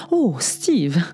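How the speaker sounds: whispered, breathy "Oh, Steve"; a faked sigh of pleasure, whispered; breathy mock moan. Cris d'orgasme imités au cinéma. (soupir chuchoté, faussement extatique)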